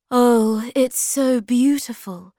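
high, bright admiring gasp; delighted Moomin Mama. Acted. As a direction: marvel at the glowing jewel.

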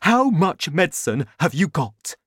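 excited father, half shouting; father's shout. A narrator's reading. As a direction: call it out eagerly. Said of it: "Mister Cranky shouted".

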